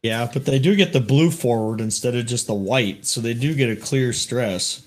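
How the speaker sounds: distant, roomy sound; speaking away from the microphone; far from mic. Real, not acted. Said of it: "stop talking like you're in a gymnasium".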